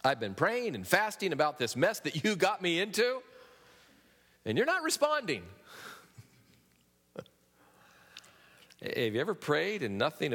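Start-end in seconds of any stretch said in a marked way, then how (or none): 0.0-5.4 a frustrated plea to God that climbs higher to the end; complaining prayer. Pretend. Preacher voicing a believer's frustrated prayer, mildly complaining. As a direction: whine at God that he's silent. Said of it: "we might say it this way".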